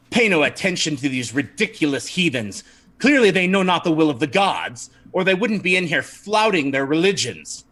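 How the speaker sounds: lightly voiced indignant zealot, cutting in; Brother LaChance. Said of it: "Brother LaChance interrupts you".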